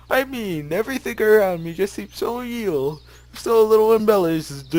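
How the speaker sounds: high, hammed-up Russian accent; attempted Russian accent. Gamer trying the game's lines in a Russian accent, hammed up. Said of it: "reading everything in a Russian accent".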